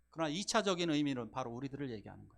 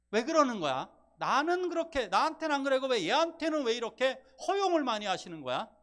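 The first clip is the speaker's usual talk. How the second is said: much higher and louder, aggrieved outburst; angry protest; 10 semitones higher, 8 dB louder than usual. Retold or imitated. Eldest child angrily confronting parents over favoritism. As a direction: demand to know why, getting angrier. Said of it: "하면서 화를 냅니다".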